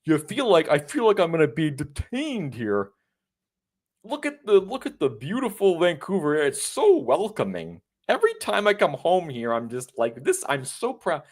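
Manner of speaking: lightly hammed proud commenter; mock commenter. Reading the comments aloud, a lightly hammed gushing voice. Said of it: "The comments are like".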